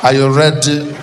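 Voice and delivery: hammed-up bedroom invitation with a chuckle; Jacob Zuma seductive. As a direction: draw out each phrase as a seducer. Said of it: "looking all sexy".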